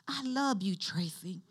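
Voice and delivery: imitating a loving voice, softening on the name; softly falling, intimate retelling; tender, personable. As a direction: say it like talking to your sweetheart. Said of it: "like when you talking to your man".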